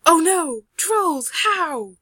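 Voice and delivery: loud, high, punchy cries of alarm; alarmed outcry. Acted. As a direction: exclaim each bit separately in dismay. Perlin alarmed by trolls.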